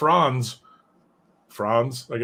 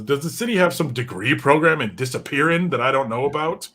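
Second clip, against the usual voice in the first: sarcastic Bullock; 5 semitones higher, 4 dB louder than usual. Retold or imitated. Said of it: "he goes".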